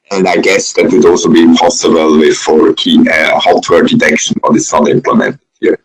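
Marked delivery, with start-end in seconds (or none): none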